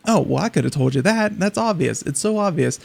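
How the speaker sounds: mock a smug skeptic coyly; coy know-it-all. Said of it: "very coyly say".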